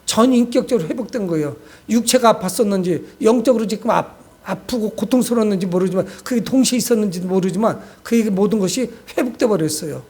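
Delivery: normal talking voice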